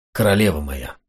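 a lightly voiced lover, begging mildly; plaintive voice. A narrator's reading. Kmicic pleads with his beloved, mildly plaintive. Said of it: "жалобным голосом".

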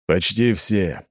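slow, mildly reluctant answer; understated reluctance, words stretched. Acted. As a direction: let it out slowly, unwillingly. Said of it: "неохотно ответил Николай".

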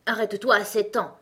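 opinionated Gros Coco. Acted. Gros Coco advises Alice on her age, opinionated. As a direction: lecture a child with self-assured authority.

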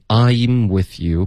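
I'm with a full I diphthong; teacher models I'm slowly; clear I'm. Shown as a demonstration. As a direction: open I'm gliding from a to i. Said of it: "不能发成an".

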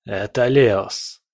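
slow, hoarse voice over the phone. A narrator's reading. Leos announces himself on the phone, hoarse and slow. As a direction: rasp it out slowly. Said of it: "хриплый голос".

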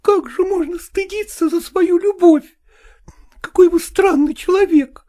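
high woman's voice, half in tears; tearful wife. A narrator's reading. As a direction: plead high through tears. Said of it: "отвечала она сквозь слёзы". (высокий женский голос сквозь слёзы)

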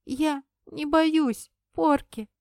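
slow, high, drawn-out sobbing words; a boy crying but insisting he is brave. Acted. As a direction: sob it out as a stubborn little boy. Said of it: "всхлипывая, протянул он".

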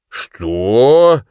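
mocking, drawn-out what. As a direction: stretch it with disbelief. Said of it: "протянул Броуди". (протяжно, насмешливо)

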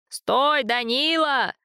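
high, ringing call to stop. A narrator's reading. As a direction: call after him from behind. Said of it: "окликнул его старец".

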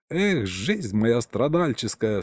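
slow, sighing self-pity; a slow mock-tragic sigh over his lot; weary sigh. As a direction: moan about your hard life with a sigh. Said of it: "снова вздохнул динамик".

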